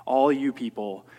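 loud, fast, lofty sneer at all you people; mock proud scorn. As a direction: play a smug man looking down on sinners. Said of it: "not being proud and looking down on everybody else".

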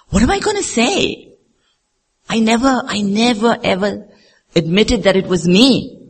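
high-pitched, rising objection; acted protest. Believer protesting to mentor about owning up, high-pitched dismay.

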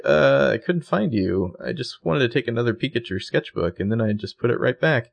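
lightly voiced innocent excuse; scared, innocent girl. Arya explains herself to Rhonda, mildly innocent and scared. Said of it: "her voice gets all, like, high and innocent when she's scared".

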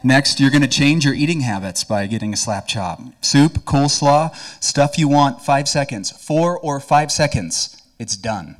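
preacher imitating an infomercial for laughs; mock infomercial pitchman. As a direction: ham up the TV pitchman's promises. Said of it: "here are a few of the Slap Chop promises".

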